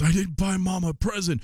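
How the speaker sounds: a mild imitation of a kid's dismay; voicing his young son. Dad retelling his son's morning announcement, lightly childlike. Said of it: "my son woke up and he goes".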